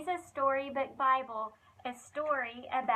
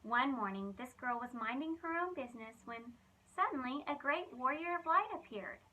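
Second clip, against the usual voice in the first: lively, expressive storybook reading; reading to children. Acted. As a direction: tell it like a bedtime Bible story for kids. Reads Bible story to children.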